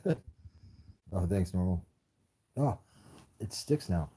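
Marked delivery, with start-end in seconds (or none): 0.1-0.2 short, rough "ugh"; frustrated groan. Real, not acted. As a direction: let out a brief exasperated groan. Frustrated with the phone.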